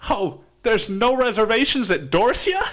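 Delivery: mock offended Wall Street voice; Patrick Bateman. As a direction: play a lightly voiced snobby psycho yuppie. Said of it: "I'm like fucking Patrick Bateman".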